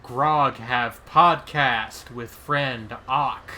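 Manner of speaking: slow, loud caveman speak; Grog caveman voice. Pretend. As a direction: dumb brute talking slowly. Playing the character Grog.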